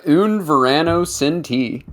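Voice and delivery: album title drawn out in gringo Spanish; album title with flat American vowels; Peggy Hill Spanish. Shown as a demonstration. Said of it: "That's Peggy Hill Spanish".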